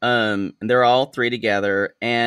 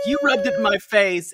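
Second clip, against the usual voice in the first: retold tearful accusation; 8 semitones higher than usual. Acting crying Hannah's quarrel.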